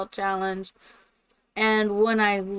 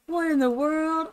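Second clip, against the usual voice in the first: retold shock; 8 semitones higher than usual. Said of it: "I'm, like, freaking out".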